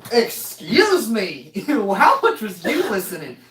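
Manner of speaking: incredulous. Real, not acted. Mocking the server's listening.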